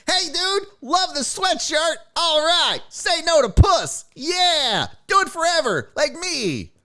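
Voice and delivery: put-on high, shouty old man voice, way up; creepy dad voice. Dad cheering the kid in the airport, high shouty voice. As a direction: bellow like the preachy dad. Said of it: "the same guy that was like".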